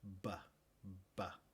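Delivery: "Ba" con voz, labios vibrando; sonido b sonoro. Shown as a demonstration. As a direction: di "ba" con las cuerdas vocales. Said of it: "solo es sonoro y no sordo". (b sonora repetida)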